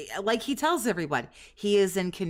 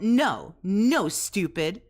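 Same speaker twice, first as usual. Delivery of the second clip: louder, slow mock scolding; imitating a scold; 3 dB louder, much slower than usual. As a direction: copy his scolding, drawn out. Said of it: "Listen to him, like, scold".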